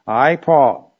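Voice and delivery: firm stress on I and Paul; name yourself pointedly, I, Paul; Paul, emphatic. Acted. Teacher quoting Paul pointing himself out, emphatic. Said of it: "he is really pointing himself out".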